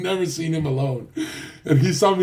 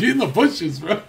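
creepy Fresh impression; 7 semitones higher, 4 dB louder than usual. Imitating Fresh's creepy smile.

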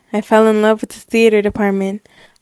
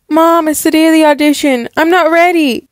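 higher, rushed pre-audition nerves; nervous panic; 5 semitones higher, faster than usual. Acted. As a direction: fret anxiously to mom. Acted panic before audition.

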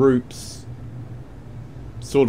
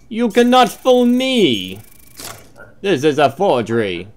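mock outraged shout; 5 semitones higher, 4 dB louder than usual. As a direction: shout it like catching a cheat. Inspector catches a forgery.

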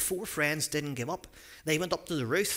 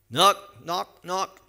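loud, higher knock knock knock; knocking sound; 5 semitones higher, 8 dB louder, much slower than usual. Pretend. Storyteller to children, acting out loud door knocks.

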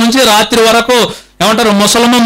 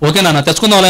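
lovingly; 4 semitones lower, much faster than usual. Retold or imitated. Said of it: "అని అంటాడు ప్రేమగా".

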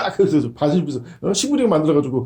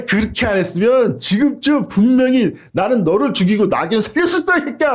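a mild mock rebuke from an angel; angel scolding. Angel rebuking the prophet, mild mock scolding. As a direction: chew him out like a rough angel. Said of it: "그때 천사가 딱 나타나더니".

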